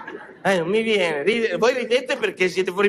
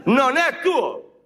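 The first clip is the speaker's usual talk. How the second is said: slow drawn-out call; 5 semitones higher, 3 dB louder, much slower than usual. Shown as a demonstration. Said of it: "Hai capito cosa ho detto?".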